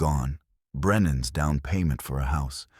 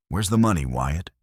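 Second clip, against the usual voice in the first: yelling; 4 dB louder than usual. Acted. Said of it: "We're both yelling now".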